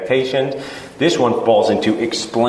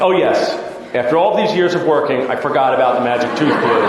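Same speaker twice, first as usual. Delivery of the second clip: mock sarcastic reply. Sarcastic reply to patient's glue idea.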